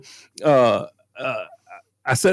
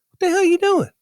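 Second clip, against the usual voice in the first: retold confrontation, pitched high and sharp; angry yell. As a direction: catch them red-handed and bark at them. Confronting thieves at his truck.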